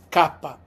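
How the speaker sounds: "Kappa" with an open ah, KAH-pa; "Kappa" said the Italian way; "Kappa" crisp, KAH-pah. Shown as a demonstration. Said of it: "That's how we pronounce kappa".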